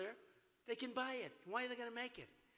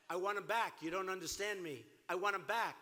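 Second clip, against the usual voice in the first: firm, louder insistence; forceful demand; 5 dB louder than usual. Retold or imitated. Negotiator to Iran, loud and insistent. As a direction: plant your feet and demand them back. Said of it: "I would have said".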